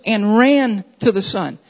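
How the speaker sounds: "ran" stressed, the rest falling away; emphasis on "ran". Shown as a demonstration. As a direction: lean on "ran" in "and ran to the son". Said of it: "those words, those words".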